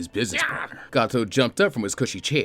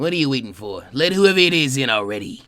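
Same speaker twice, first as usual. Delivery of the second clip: impatient boss; 3 semitones higher, 5 dB louder than usual. Acted. Gato ordering the guard.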